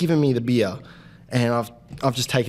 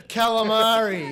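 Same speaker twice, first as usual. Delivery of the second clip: drawn-out, higher mock call; mock yelling, pitched up and stretched; retold yell; 7 semitones higher, slower than usual. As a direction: call it out slowly, as if yelling across to a table. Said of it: "like yelling calamari at this table".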